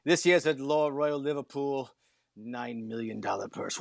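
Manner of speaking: lightly put-on English accent; a hint of a posh English announcer. Sports co-host teasing the British Open, in a mild English accent. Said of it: "if you say it in that English accent".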